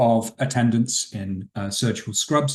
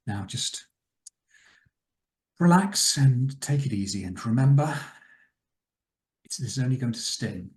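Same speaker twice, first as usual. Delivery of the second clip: lightly acted soothing doctor; halting, unhurried reassurance to a strapped-down patient; aristocratic surgeon. Game master voices the surgeon.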